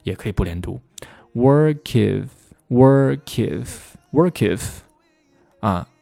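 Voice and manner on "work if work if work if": "Work if" slow, as wor-kif; "work if" joined with no gap; linked. Shown as a demonstration. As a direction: carry the K into IF in "work if". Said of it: "可以连读".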